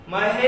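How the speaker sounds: महेश with "he" held very long, gliding upward; prolonged vowel. Shown as a demonstration. Teacher showing the correct pronunciation, prolonged-vowel महेश. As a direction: stretch the middle vowel of महेश for seconds before "sh". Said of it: "इसका सही उच्चारण क्या होगा?".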